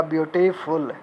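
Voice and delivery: "ब्यूटीफुल" split as ब्यूटी, फुल; syllable breakdown. Shown as a demonstration. Teacher spelling out syllables for students, "ब्यूटीफुल" divided before फुल. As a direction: sound out "ब्यूटीफुल" in two parts, ब्यूटी and फुल. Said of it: "हिज्जे करने से ही पता चल जाता है".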